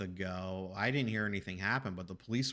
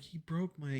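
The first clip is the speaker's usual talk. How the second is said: imitating crying neighbor; 7 semitones higher than usual. Retelling neighbor's complaint about the lock, mock tearful. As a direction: mildly mimic a tearful complaint. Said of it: "I hear her crying".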